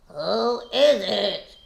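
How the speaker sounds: put-on mild, slow crackly old-lady call; wolf faking Grandma, a touch crackly; fake crackly grandma. A narrator's reading. Wolf pretending to be Grandma, slow crackly call. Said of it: "he called in a crackly voice that he thought sounded like Grandma".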